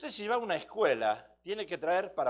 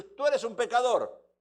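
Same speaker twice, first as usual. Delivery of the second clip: accusing; 2 semitones higher, 6 dB louder than usual. Acted. Parent accusing child quoted.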